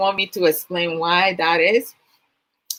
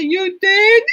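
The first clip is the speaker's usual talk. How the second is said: mock surprise; 13 semitones higher, 6 dB louder than usual. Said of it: "I was like".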